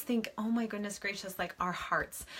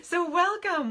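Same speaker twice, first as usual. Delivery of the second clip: laughing welcome; 11 semitones higher, 5 dB louder than usual. Real, not acted.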